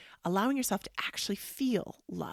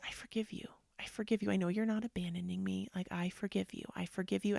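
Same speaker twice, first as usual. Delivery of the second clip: gentle forgiveness; 4 dB quieter, faster than usual. Retold or imitated. Retelling gentle self-talk forgiving husband.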